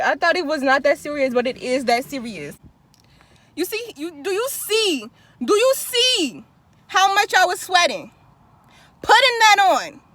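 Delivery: loud, fast and breathless; panting, still worked up; out of breath. Real, not acted. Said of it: "I'm out of breath".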